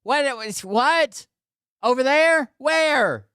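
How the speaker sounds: hammed-up high falsetto questions; confused wife. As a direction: imitate her, baffled and very high. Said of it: "she'd snap her head back around and say".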